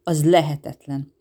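a mild startled protest; breathless shock. Acted. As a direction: gasp it out as impossible. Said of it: "Zsiliánnak elakadt a lélegzete".

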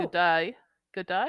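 "day" toward "die", lightly Australian; accidental hint of an Australian accent on "Good day"; slightly Australian. Shown as a demonstration. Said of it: "sounded a little Australian at the beginning".

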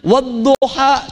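Wadduha said slowly with the A leaning to E; slow retold imalah recitation; imalah reading retold. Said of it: "di tempat yang E".

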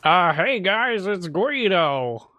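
lightly put-on sick character voice, drawn out; slow, hammed-up introduction as if under the weather; sick Guido. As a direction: pretend to be Guido with a cold. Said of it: "you sound a little off".

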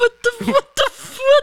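laughing in disbelief. Real, not acted. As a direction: crack up while asking. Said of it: "That's how they say it".

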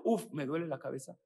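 fast, whiny grumble about a headache; mock complaint, quick and whiny; complaining. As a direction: moan it like a small drama. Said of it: "En lugar de decir".

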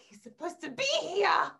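slow, anxious whisper. Retold or imitated. Bride waiting for her late groom, slow anxious whisper. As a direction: breathe it out, scared he won't come.

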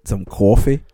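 teasing New York "coffee"; mock New York accent. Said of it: "mine is not a New York accent".

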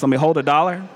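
Memphis phrasing, relaxed; Memphis-style "hold a dollar"; Memphis slang. Shown as a demonstration. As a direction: say it the way they ask in Memphis. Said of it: "That's how we say it in Memphis".

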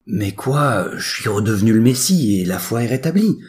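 high-voiced teenager justifying himself; protesting son. A narrator's reading. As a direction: plead your case to father, pitched high. Jesus protests to his father.

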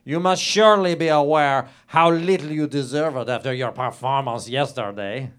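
hammed-up dramatic reading aloud of a lurid novel. Comedian reading his own racy novel to the host, hammed-up and grand. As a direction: read it like a grand melodrama.

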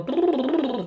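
quick lip-trill warm-up noise; rolling "brrr" demo. Shown as a demonstration. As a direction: buzz the lips briefly as in a vocal warm-up. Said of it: "このブルブルブルブルとか".

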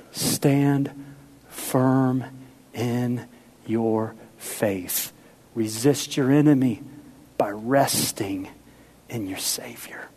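low, slow whisper to close; hushed. Real, not acted. Preacher whispering the final exhortation to the congregation. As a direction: let the last words fall to a whisper.

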